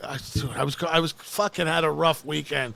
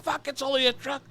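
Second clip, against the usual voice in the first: mocking; 8 semitones higher, 4 dB quieter than usual. Mocking the cop's words.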